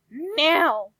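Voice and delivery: loud, high bark of a command; shouting. Acted. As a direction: snap the order loud. Barbie demanding a drink.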